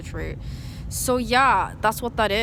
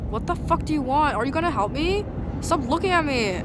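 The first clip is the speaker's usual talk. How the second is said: retold angry comeback; angry retort; 5 semitones higher than usual. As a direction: snap back at the people harassing you. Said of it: "And I'm like".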